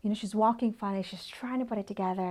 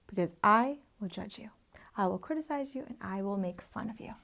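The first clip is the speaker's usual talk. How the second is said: hushed threat; 4 dB quieter than usual. Acted. Voicing the judging critics.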